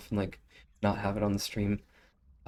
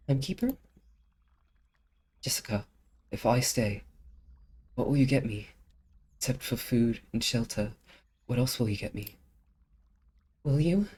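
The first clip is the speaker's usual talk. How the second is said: put-on higher, probing girl voice; lightly voiced curious girl; questioning girl; 3 semitones higher than usual. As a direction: press her for more. Voices character bargaining.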